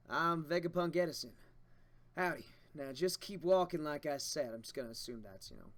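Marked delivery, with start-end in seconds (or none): 0.1-4.5 light put-on Kansai accent, folksy greeting; a loose Kansai accent, friendly and forward. Vegapunk Edison greeting the crew in a light Kansai accent. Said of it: "Speaks in a heavy Kansai accent".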